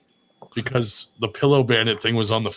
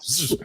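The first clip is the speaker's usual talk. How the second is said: fan buzz noise; 4 semitones higher, 5 dB quieter than usual. Retold or imitated. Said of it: "it just went like".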